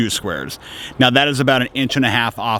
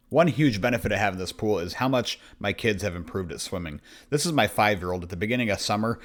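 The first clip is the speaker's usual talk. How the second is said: softer, hushed documentary narrator; deep narrator voice; 7 dB quieter than usual. Acted. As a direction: narrate it like a nature film. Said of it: "my deep narrator voice".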